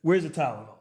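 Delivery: loud, slowed mock celebration; movie quote exclamation. Quoting Christmas Vacation movie line.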